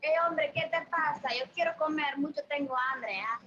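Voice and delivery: hammed-up Mexican Spanish accent; animated Mexican accent. Shown as a demonstration. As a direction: play an eager Mexican character in accent.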